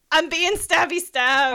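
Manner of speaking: mock victim voice. Voicing the screaming clone mockingly.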